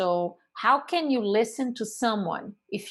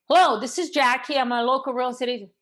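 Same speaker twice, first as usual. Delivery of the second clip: louder and quicker, matching energy; match their hello right back; matching the caller; 3 semitones higher, 4 dB louder, faster than usual. Shown as a demonstration. Agent mirroring an energetic homeowner's loud, quick hello. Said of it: "The volume, the rate of speech, the emotion".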